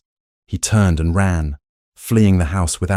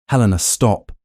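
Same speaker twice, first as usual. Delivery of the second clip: pleading; 3 semitones higher than usual. A narrator's reading. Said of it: "Gideon pleaded".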